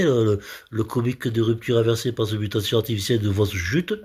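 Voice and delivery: fast, fluent run through the term; well-delivered patter. Shown as a demonstration. Comedian showing the term works when well delivered, brisk. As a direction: rattle the long term off in one go. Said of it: "quand c'est bien tam-, bien amené".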